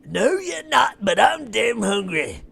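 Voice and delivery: high, loud giant shout. Acted. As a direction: snarl it out as a hungry giant. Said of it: "it says".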